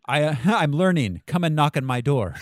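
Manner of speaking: giggling through a silly quote; laughing quote. Pretend. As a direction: laugh while you say it. Laughing while quoting TV lines.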